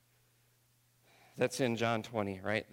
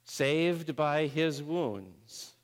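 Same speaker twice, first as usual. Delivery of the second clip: slow emphasis; 5 semitones higher, 5 dB louder, much slower than usual. Real, not acted. Slow emphatic summary line.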